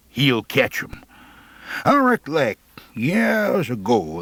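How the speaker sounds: lightly voiced folksy old timer; easy backwoods yarn-spinner voice; old Rancid drawling. Old Rancid telling the tale.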